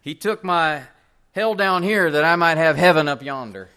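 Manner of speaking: a hint of an old Southern preacher's twang. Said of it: "I don't know if I can match his accent".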